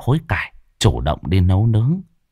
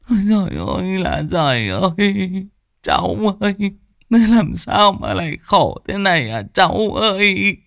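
high keening mock wail; wailing lament; 11 semitones higher than usual. A narrator's reading. Hói's wife arriving in tears, high wailing lament. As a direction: wail like a grieving woman. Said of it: "Vợ lão Hói mếu máo".

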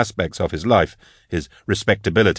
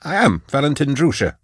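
higher, nervous reply; scared answer; 7 semitones higher than usual. A narrator's reading. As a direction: answer fast, too scared to bristle. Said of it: "too scared to be offended".

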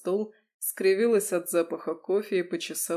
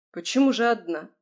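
indignant; 3 semitones higher, 6 dB louder than usual. Acted. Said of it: "возмутилась Рада".

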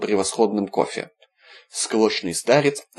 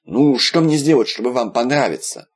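pleading; slower than usual. Acted. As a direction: beg him, growing desperate. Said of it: "взмолился Виталик".

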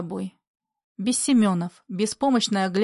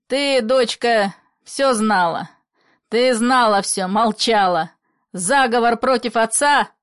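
loud accusation; 5 dB louder than usual. Acted. Father accusing daughter.

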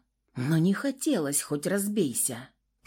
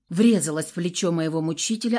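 ordinary delivery

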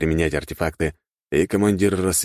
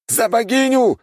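high loud battle cry; a young soldier yelling for the goddess; shouting; 5 dB louder than usual. A narrator's reading. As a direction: roar it as a rallying call. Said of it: "выкрикнул младший перс".

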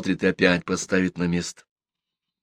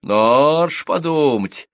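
higher, stretched-out outrage; indignant; 5 semitones higher, 4 dB louder than usual. A narrator's reading. Widow reacts to the scandalous news, indignant. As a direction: scoff at her false modesty. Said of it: "возмутилась Ленка".

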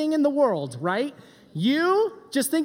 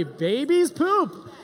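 slower, odd-voiced "babies poop"; mock confiding "babies poop"; comic hushed; 2 semitones higher, much slower than usual. Shown as a demonstration.

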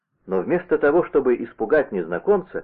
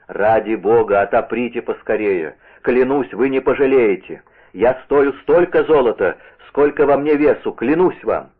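insistent pleading oath; 4 dB louder than usual. Acted. Visitor urging old man to open.

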